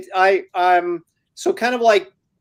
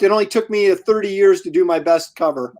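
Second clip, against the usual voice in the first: usual speaking voice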